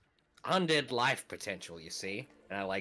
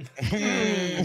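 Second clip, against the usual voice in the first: loud, high imitated "hmm"; collective pondering hum; 9 semitones higher, 7 dB louder than usual. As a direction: hum it up high like a whole group wondering. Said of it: "I assume that everyone, like".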